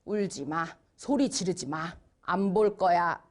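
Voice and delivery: low, controlled parental command; firm parent. Acted. Parent telling a crying child to stop, firmly.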